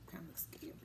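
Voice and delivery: a whispered mock shiver; spooky whisper. Teacher to kids about a many-armed sea star, mock-scared whisper. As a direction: hush it like the picture is spooky.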